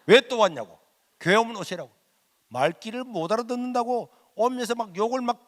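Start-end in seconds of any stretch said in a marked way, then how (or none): 0.0-1.9 imitating the man's mock angry yell; retold angry outburst. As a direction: snap it back the way he barked it. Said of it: "열을 팍 내면서".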